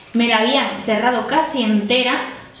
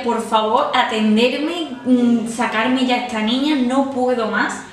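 retold screaming; 4 dB louder, slower than usual. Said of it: "gritaba, decía".

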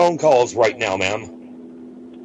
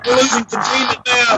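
panicked shouting; 8 semitones higher than usual. Acted. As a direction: yell it like the lab is failing. Faked emergency.

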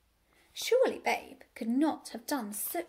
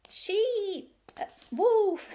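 high, loud bleating sheep; silly bleating sheep; 8 semitones higher, 7 dB louder, much slower than usual. A narrator's reading. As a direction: bleat out the words dimly. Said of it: "said the sheep".

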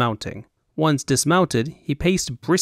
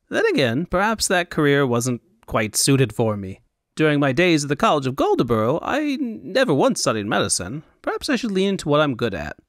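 musing fop; 3 semitones higher than usual. Acted.

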